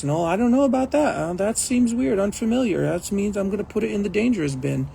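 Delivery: anxious fretting. Retold or imitated. Voicing the anxious brain.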